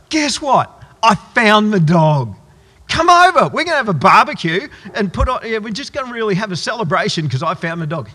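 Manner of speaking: the farmer overjoyed, phoning the neighbours; mock ecstatic announcement. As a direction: ham up a gushing phone call to the neighbours. Mock over-the-top celebration call.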